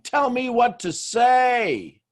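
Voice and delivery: high, slow, shouted plea; mock desperate shout. Students begging for a script, shouted slowly and high. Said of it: "just absolutely going and saying".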